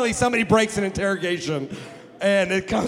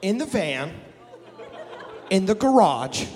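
low sketch-comedy catchphrase, punched at the end; Chris Farley; 5 semitones lower than usual. Acted. Preacher quoting an SNL sketch, hammed-up low impression. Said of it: "S N L, Chris Farley".

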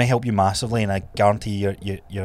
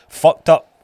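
loud emphasis; 7 semitones higher, 9 dB louder than usual. Real, not acted. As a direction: burst out loud on fucked up. Emphatic outburst.

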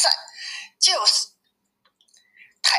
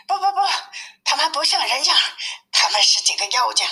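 startled, high refusal easing towards usual pitch; alarmed old man; 6 semitones higher, faster than usual. Acted. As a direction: wave them off in alarm, voice jumping high. Frightened old man waves visitors off.

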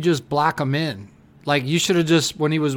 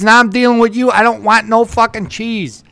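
mock-exasperated worker, louder; annoyed worker; 4 semitones higher, 7 dB louder than usual. Retelling the Subway worker's complaint, loud mock exasperation. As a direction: imitate a fed-up sandwich guy, raised voice. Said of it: "the guy goes".

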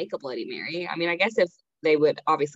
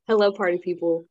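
radio voice; 3 dB louder, faster than usual. Pretend. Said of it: "We have my radio voice on".

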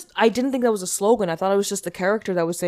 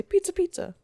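mascot voice; 10 semitones higher, 5 dB quieter than usual. Retold or imitated. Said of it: "the mascot would say".

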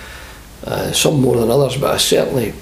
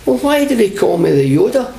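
laughing mock grievance; 7 semitones higher than usual. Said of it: "I says".

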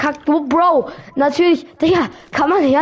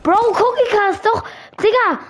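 exasperated outburst; 5 semitones higher, slower than usual. Real, not acted. Genervt von Cookie Cast.

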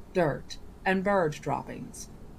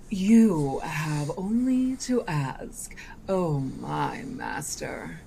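slow sly coaxing; much slower than usual. Acted. Genie's mocking offer.

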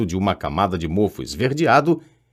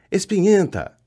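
higher-pitched mocking poltergeist cry, repeated; taunting yell; 10 semitones higher than usual. A narrator's reading. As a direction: keep jeering at her. (grito zombeteiro e agudo, repetido)

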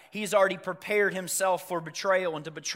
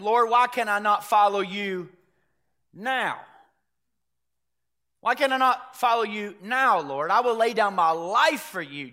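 lightly acted insistent plea, louder and higher; Peter's protest; 4 semitones higher, 6 dB louder than usual. Disciple protesting to his Lord at supper, insistent. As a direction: press the vow with emphatic force. Acts out Peter pleading with Jesus.

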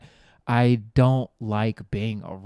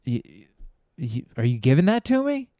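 higher, bewildered question to the homeless woman; mock incredulous; 4 semitones higher than usual. Comic asking the woman with a dollar, baffled and higher. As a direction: play baffled disbelief, pitched up. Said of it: "I'm like".

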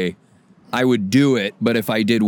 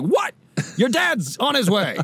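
high, slowed mock mom voice; imitating mom; 11 semitones higher than usual. Mom answering her son's phone call, high and slowed. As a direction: play a startled mom, high and drawn out. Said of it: "my mom's like".

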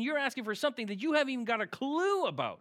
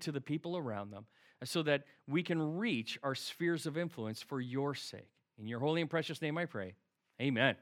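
prayer; 3 semitones lower than usual. Acted. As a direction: pray it gently, ending hushed. Pastor leads a closing prayer.

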